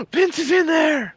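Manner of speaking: high gasp then slow, hammed-up shock; gasp, then draw out the words in mock astonishment; mock surprise. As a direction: gasp and point him out in fake alarm. Mock shock at cat appearing.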